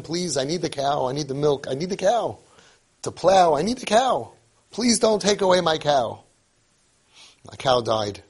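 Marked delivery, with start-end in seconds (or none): 0.0-6.2 raised-pitch, mildly desperate begging; pleading. Retold or imitated. Poor man begging Hashem to spare his cow, pleading. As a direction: plead urgently, rising as you go. Retold plea to God for cow.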